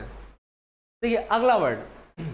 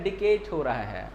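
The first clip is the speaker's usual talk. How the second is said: Englishman saying डिकेट, lower and slow; English accent: डिकेट with hard retroflex d and t; 8 semitones lower, 4 dB quieter than usual. Retold or imitated. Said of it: "अगर हिंदी बोलेगा अंग्रेज".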